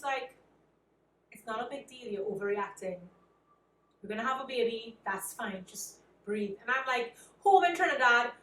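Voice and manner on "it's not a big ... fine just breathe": quiet, settling reassurance; retold calm reassurance. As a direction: imitate someone calmly talking a worrier down. Husband soothing her in retold exchange.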